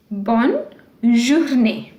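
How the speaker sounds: bonne journée said slowly, bonne then zhoor-NAY; slow model of bonne journée; French bonne journée. Shown as a demonstration. Teacher slowly models bonne journée for students. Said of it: "Wherever you see this accent".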